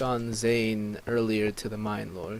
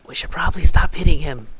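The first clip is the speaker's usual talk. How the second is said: quick, raised, louder delivery; in-character urging; 5 semitones higher, 11 dB louder, faster than usual. Acted. Player's character urging others to stop hitting Zane, quick urging. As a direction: say it fast and up in pitch, as one phrase. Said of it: "I was like".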